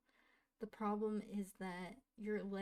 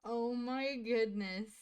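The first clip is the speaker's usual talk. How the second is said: louder, stunned oh my goodness; shocked exclaim; 6 dB louder than usual. Real, not acted. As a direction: react in real disbelief. Reacting in shock to game.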